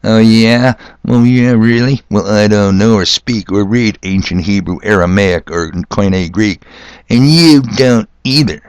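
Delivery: lightly voiced indignant know-nothing; a touch of mock moron bluster. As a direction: imitate a moron arguing back. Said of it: "every time some moron said to me".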